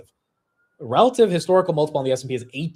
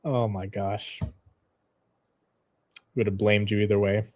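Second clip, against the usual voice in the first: ordinary delivery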